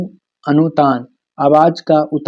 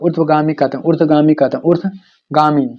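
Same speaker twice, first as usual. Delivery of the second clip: ऊर्ध्वगामी drawn out syllable by syllable; slow it down so students can write ऊर्ध्वगामी; slow, careful repeat. Shown as a demonstration. Teacher dictating the new term to students, slow and deliberate. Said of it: "repeats the term for students".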